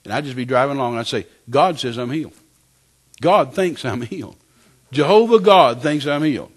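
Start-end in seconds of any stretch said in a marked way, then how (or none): 1.5-6.5 building to loud, higher proclamation; emphatic declaration. Retold or imitated. Driver repeating to himself for hours, emphatic declaration. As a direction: declare it with mounting conviction.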